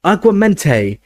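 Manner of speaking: high-pitched spell shout; urgent shout. A narrator's reading. Harry conjuring water for Dumbledore, high urgent shout. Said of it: "he shouted".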